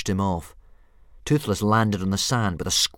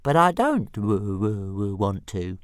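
stuttering dragon; 4 dB louder, slower than usual. Acted. Dragon voice continues.

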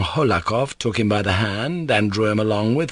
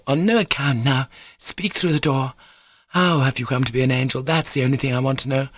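put-on lightly raised girlish voice; insistent girl; 5 semitones higher, faster than usual. Lisa questions Alyosha through the door, insistent. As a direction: demand an answer in a slightly higher voice.

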